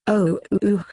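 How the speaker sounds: a hammed-up fake Australian accent, crying out; mock Australian-accented cries of pleasure; grandma yelling out in a bad fake Australian accent. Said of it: "her best New Zealandic non-Nicole Kidmanish fake Australian accent".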